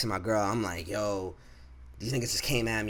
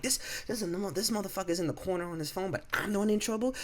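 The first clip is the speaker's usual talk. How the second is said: incredulous; 10 semitones higher, 3 dB quieter, faster than usual. Retold or imitated. Retold disbelief at unfair blame.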